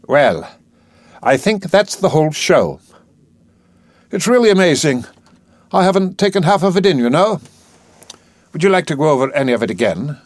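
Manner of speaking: lightly voiced, eager professor; a hearty scientist keen to show off; Higgins voice. Higgins speaks in a play reading.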